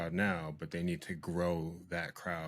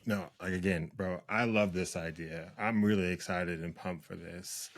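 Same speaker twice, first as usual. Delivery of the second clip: monotone voice. Real, not acted. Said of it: "your monotone voice".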